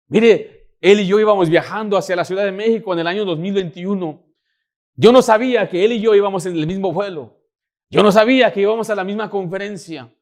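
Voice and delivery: loud, high, driving sermon voice; fervent pulpit delivery with rising pitch; preaching at full force. Acted. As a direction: preach it out to the whole room.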